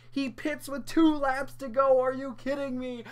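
are-you-kidding-me outrage; exasperated. Real, not acted. Ranting about pit call.

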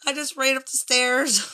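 breathless after running upstairs; panting a little between words; out of breath. Real, not acted. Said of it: "I'm out of breath".

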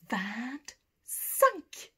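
vingt-cinq said clearly, van-SANK with a rise; model repetition. Shown as a demonstration. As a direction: say vingt-cinq slowly for pupils to copy. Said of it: "À toi".

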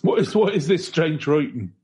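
put-on old Quaker voice. Mock Quaker outrage.

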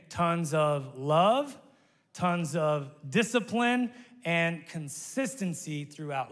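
"Tons of love" drawn out slowly, "love" rising; slow call-and-response phrase; slow emphatic repeat. Shown as a demonstration. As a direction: spell it out slowly for the crowd to repeat. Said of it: "Let's say it again".

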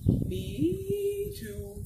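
high, whiny second cow. Acted. The second cow agreeing, high and whiny. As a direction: pipe up in a high whine.

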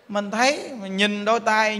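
ordinary talk

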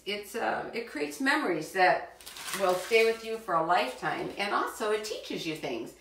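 usual speaking voice

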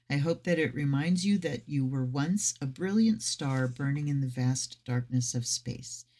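measured guidebook reading; reading aloud. Acted. Tarot reader sharing the deck's introduction, reading aloud. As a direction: read the introduction to listeners evenly.

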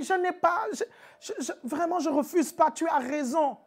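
high, faltering pleading woman; hesitant woman. Acted. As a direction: stammer and concede.

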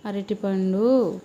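అరటిపండు drawn out slowly, syllable by syllable; slow, clear అరటిపండు; slow teaching. Shown as a demonstration. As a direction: model అరటిపండు slowly for a toddler to copy. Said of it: "చెప్పు".

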